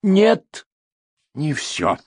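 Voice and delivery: high, loud cutting no; sharp objection. A narrator's reading. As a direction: cut him off hard. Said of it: "возразил комиссар".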